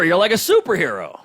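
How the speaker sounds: usual speaking voice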